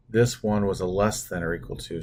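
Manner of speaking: "this" weighted, the rest even; stress on this. Shown as a demonstration. Teacher stressing "this one" for students. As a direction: lean on "this one" to mark it. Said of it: "what I wanna stress on this is that".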